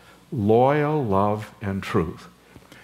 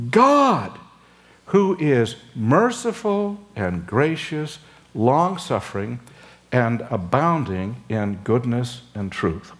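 soaring God, then a slower measured reading; proclaiming. Acted. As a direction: announce it like scripture from the mountain. Preacher reads God's self-proclamation.

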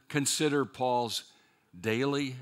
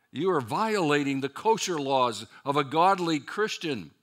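rising, louder scolding, building to a high push; stern rebuke; 4 semitones higher, 6 dB louder than usual. Retold or imitated. Judaizers scolding Peter for eating with Gentiles, rising scold. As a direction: scold him for breaking the kosher laws.

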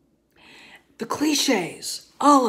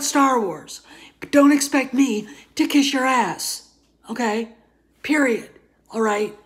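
angry rant; 3 semitones higher, 4 dB louder than usual. Real, not acted. Fan venting at critics about his review, loud and angry. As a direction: let the frustration boil over.

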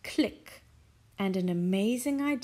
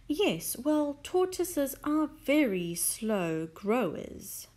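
solemn; 5 semitones higher, slower than usual. Acted. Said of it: "said solemnly".

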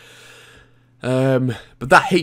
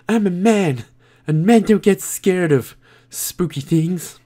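higher-pitched mock-macho voice, drawn out at the end; put-on manly voice; 5 semitones higher, slower than usual. Gamer jokingly denying he was scared, in a put-on manly voice. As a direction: put on a silly tough-man voice, slowing down. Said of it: "said it in that voice there".

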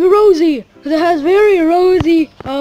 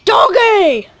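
raised voice with falling calls; insistent calling; 4 dB louder than usual. Pretend. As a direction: keep calling a dog that won't come. Repeatedly calling a dog.

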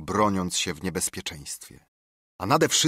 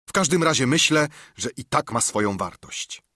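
cheerful reply; 5 semitones higher, 3 dB louder than usual. Acted. Dick relieved reply.

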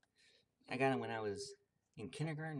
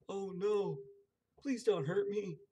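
high, loud frightened little man; frightened cry; 8 semitones higher, 7 dB louder than usual. Acted. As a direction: plead high and loud in fear. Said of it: "cried the little man".

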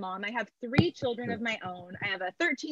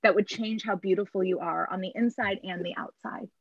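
gentle mom; 3 semitones lower than usual. Pretend. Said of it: "the type of mom that would say".

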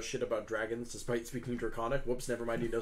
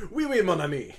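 hammed-up French greeting, louder and higher; Hugo greeting the dragon; 6 semitones higher, 7 dB louder than usual. Hugo walks up to the dragon, hammed-up French greeting. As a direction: laughingly throw out a big French hello. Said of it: "just goes".

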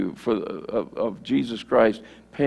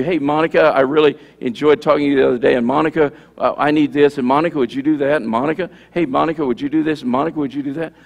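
parody of prayer-talk; 3 dB louder, faster than usual. Pretend. Preacher showing Monica how nobody talks, rambling parody. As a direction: rattle it off, tacking the name onto every request. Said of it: "I wouldn't say to you".

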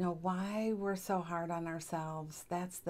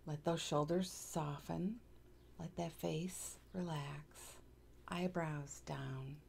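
guided relaxation; 5 dB quieter than usual. Acted.

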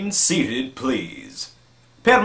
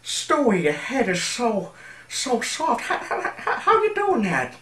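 dreamy stoner voice; 5 semitones higher than usual. Retold or imitated. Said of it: "voice impressions".

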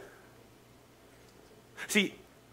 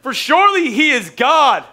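high, loud mocking taunt, slow on shout louder; 8 semitones higher, 5 dB louder, slower than usual. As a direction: goad them with mock encouragement. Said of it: "He says, he says".

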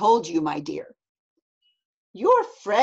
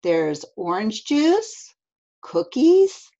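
animated mom; 6 semitones higher, 6 dB louder, slower than usual. Acted. Mom lists food, then gasps.

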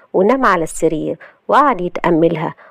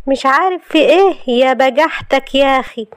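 high, outraged retort; indignant anger; 7 semitones higher than usual. Acted. Wife outraged at husband's ignorance, indignant. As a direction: scold him for his nerve.

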